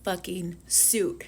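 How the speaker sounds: slow, soft whisper; relishing a favorite line, whispered slowly; whispered quote. Retold or imitated. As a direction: savor the line in a slow hush. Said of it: "My favorite fucking line".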